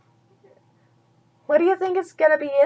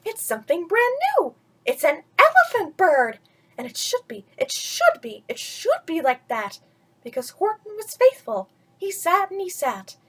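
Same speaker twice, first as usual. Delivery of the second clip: mildly raised, cheering voice; excited crowd; 3 semitones higher than usual. Acted. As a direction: cheer the elephant bird on. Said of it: "they shouted".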